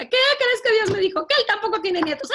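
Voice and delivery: high, loud, bubbling with laughter; mother giggling through the news; laughing mother. Retold or imitated. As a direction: tell it while cracking up. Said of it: "mi mamá muerta de la risa".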